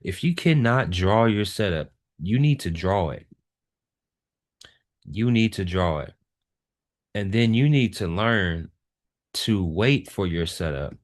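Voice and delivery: firm, deliberate stress on "cannot draw" and "need to draw it"; emphatic. Real, not acted. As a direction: drive home "you need to draw it" with weight on each phrase. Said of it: "say this with emphasis".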